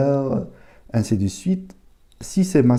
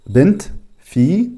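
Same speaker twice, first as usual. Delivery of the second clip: bint and fille said higher and louder; emphatic gloss; 7 semitones higher, 4 dB louder than usual. Shown as a demonstration. Teacher stressing the word and its meaning for students, higher and louder. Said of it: "Bint, qui signifie fille".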